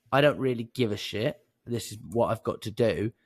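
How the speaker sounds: easy, unbothered delivery; relaxed. Shown as a demonstration. Caller starting a sales call relaxed, not bothered. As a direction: say it as if nothing is at stake. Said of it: "in a relaxed manner".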